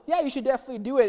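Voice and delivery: quick, offhand mock agreement; sarcastic. Prophet Micaiah fobbing off King Ahab, fast and sarcastic. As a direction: toss it off fast, not meaning it. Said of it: "is kinda smart with him".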